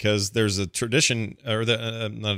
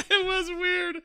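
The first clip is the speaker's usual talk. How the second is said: laughing; 3 dB quieter, slower than usual. Real, not acted. Laughing at odd caller.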